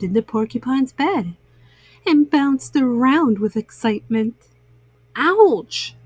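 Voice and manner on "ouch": high yelp of pain; bunny's high yelp from the quills; mild scream. A narrator's reading. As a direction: yelp it out, pricked. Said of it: "he screamed".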